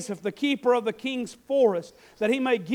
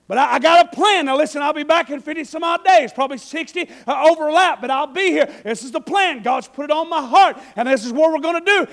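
louder, confident announcement; bold Nehemiah; 2 semitones higher, 7 dB louder than usual. Acted. Nehemiah declares his plan to the king, loud. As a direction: proclaim the plan. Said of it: "Nehemiah presents his plan".

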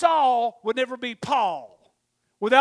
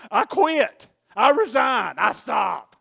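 loud surrender; 6 dB louder, slower than usual. Retold or imitated. Voiced surrender prayer, loud.

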